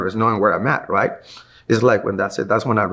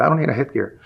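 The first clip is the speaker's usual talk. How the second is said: cocky attitude; 5 semitones higher, faster than usual. Retold or imitated. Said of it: "So I started giving him an attitude".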